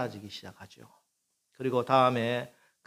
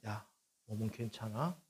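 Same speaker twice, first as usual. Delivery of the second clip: softer, gentle check on the son; quiet question; 2 semitones lower, 9 dB quieter than usual. Retold or imitated. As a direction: ask quietly, close to him. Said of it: "조용히 묻습니다".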